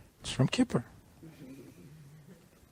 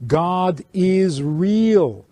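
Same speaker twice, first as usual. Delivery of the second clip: voicing the reluctant Jew; 5 semitones higher, 4 dB louder than usual. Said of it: "basically stating to the whole world".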